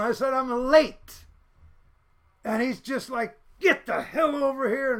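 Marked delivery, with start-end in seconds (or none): 0.3-1.2 high, loud mock protest; yelled-back excuse. Student answering the yelling cop, mock protesting loudly. 3.6-4.9 high, loud mock order; imitated yelling cop. Cop summoning the late student, mock yelling. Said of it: "he's yelling at me".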